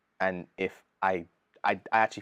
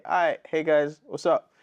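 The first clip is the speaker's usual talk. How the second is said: hyped-up host on stage, higher and louder; mock stage hype; 5 semitones higher, 4 dB louder than usual. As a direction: pump up the crowd like a concert MC. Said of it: "my job is to climb on that stage and say".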